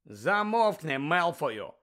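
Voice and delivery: angry. Acted. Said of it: "сказав Гаррі".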